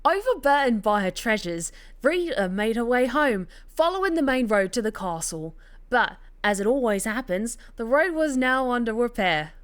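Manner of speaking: hammed-up fake Cockney storytelling; bad Cockney. Narrator rereading the tale on request, in bad Cockney. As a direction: narrate in a badly faked Cockney accent. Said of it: "To, to do the bad Cockney accent".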